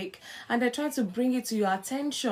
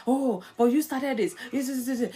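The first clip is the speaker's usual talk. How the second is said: mock defensive comeback, rattled off; defensive retort. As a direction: argue back like a defensive spouse. Acting out a defensive spouse.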